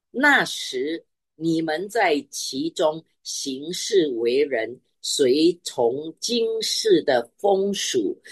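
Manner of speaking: slow, deliberate scripture reading. Acted. Preacher reading the verse to the congregation, slow and emphatic. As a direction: read the verse out with weight, drawing out each phrase. Reads scripture aloud slowly.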